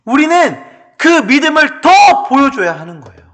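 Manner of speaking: high, ringing sermon climax; sustained, fervent pulpit delivery; impassioned preaching. Real, not acted. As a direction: proclaim it with full force to the congregation. Preaches at full force.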